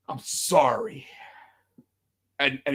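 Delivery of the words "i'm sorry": mild vitriol. Retold or imitated. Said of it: "he said it with, like, vitriol the first time".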